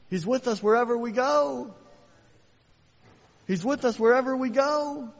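loud, high, building preacher's cry; preaching at full force. Acted. Preacher rousing his church, loud and climbing to a shout. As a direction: rise to a roaring climax for the church.

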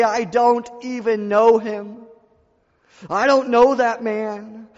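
slow, high, loud denial as Peter; Peter denying. Retold or imitated. Preacher voices Peter's denial.

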